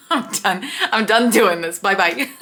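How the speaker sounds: giggling through words; laughing. Real, not acted. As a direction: laugh while saying it. Laughing wrap-up.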